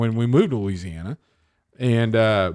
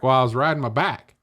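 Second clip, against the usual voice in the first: put-on Eastern Tennessee accent; 2 semitones higher, faster than usual. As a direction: BACK for bike in East Tennessee twang. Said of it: "bike were both pronounced back".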